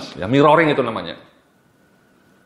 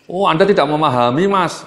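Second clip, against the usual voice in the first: higher, louder condescending "you don't understand"; dismissive; 5 semitones higher, 4 dB louder than usual. Shown as a demonstration. Trainer demonstrates a relationship-damaging reply, dismissive and higher. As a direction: brush the customer off from above. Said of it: "kata-kata yang merusak hubungan".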